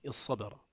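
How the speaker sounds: الصبر as iṣṣabara, one doubled ص and no ط; merged into ص. Shown as a demonstration. Teacher shows the alternative merging, الصبر with doubled ص. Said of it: "ثم تدغم الصاد فيها فتقول".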